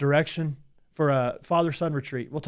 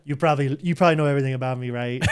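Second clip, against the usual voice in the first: impersonating Leo. Retold or imitated. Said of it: "good impersonation of Leo doing a character".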